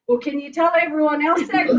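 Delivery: laughing, high and loud; tossing the joke out through a laugh; laughing quip. Retold or imitated. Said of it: "And I'm like".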